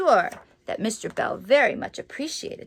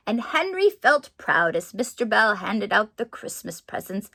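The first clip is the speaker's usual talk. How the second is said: story narration. A narrator's reading. Reads picture book aloud.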